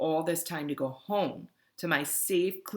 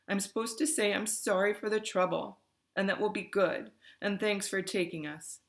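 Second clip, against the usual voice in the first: mildly teary, a bit higher; sniffling; 5 semitones higher than usual. Acted. Davis handing back the phone, mildly sniffling. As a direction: recite the apology through light sniffs. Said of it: "She sniffs after every other word".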